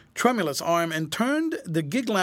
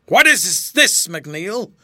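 gasping, choking voice; 9 dB louder, much slower than usual. A narrator's reading. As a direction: gasp it out, choking on panic. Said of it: "in a gasping, choking voice".

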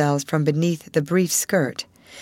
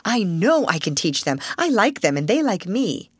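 high hopeful plea; girl eagerly pleading with the headmistress; 5 semitones higher than usual. Acted. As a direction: beg to be allowed to teach. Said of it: "exclaimed Sarah".

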